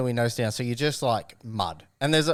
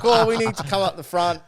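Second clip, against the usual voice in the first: Aussie radio voice; 9 semitones higher, 4 dB louder than usual. Retold or imitated. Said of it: "he puts on this Aussie accent".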